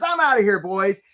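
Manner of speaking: breezy crab announcing he's leaving; crab quitting. Retold or imitated. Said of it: "Danny the crab says".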